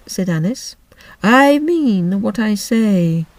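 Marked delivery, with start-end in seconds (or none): 1.2-3.3 offended. Acted. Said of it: "in an offended tone".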